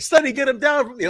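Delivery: high, jokey mock call; a hint of a parent shouting; mock yelling. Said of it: "we just yell stupid Sonny Siaki things".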